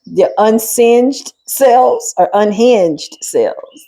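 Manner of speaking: mock-sweet, slowing down; sarcastic blessing. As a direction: bless them with a sneer, dragging it out.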